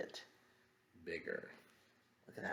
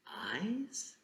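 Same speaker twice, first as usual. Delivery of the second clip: startled; 11 semitones higher, 4 dB quieter than usual. Acted. Frog spots eyes.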